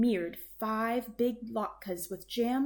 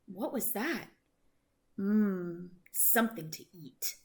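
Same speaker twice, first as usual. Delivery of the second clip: lightly voiced sleepy old bear sniffing the air; a hint of a hungry bear, curious then pleased. Bear sniffing out food smell.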